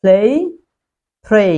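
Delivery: 'প্লে', 'প্রে' ending in an 'ei' glide. Shown as a demonstration. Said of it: "আপনি এই উচ্চারণ করবেন". (এই-ধ্বনিতে 'প্লে', 'প্রে')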